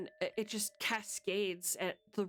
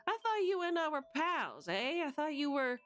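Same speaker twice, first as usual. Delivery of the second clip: put-on higher, insistent old-time gangster voice; pushy mobster; 7 semitones higher, 4 dB louder than usual. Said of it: "and he's like".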